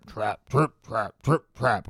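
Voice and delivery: low, rhythmic trudging trip trap; heavy trip-trap. A narrator's reading. Narrator voicing the big goat's steps, heavy trip-trap. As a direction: sound out heavy hooves on a bridge.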